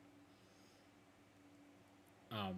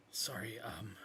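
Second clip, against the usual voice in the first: whisper; 7 dB quieter than usual. Acted. Brother wolf backs off.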